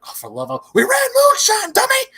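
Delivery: high and loud, fed up; exasperated old-timer. Retold or imitated. Old timer scolding Lightning, high exasperated shout. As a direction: snap it out, exasperated. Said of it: "He's like".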